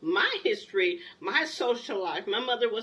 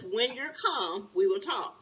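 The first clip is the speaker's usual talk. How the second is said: calm and slow; slower than usual. Retold or imitated. Husband calming yelling wife.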